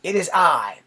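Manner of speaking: hammed-up regal reply; Caesar. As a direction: answer like a pompous ruler on stage. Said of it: "the person reading Caesar says".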